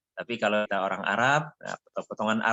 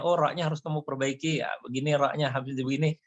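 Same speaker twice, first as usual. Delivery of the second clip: guru menegur; 5 semitones higher than usual. Acted. Acting out a correcting teacher.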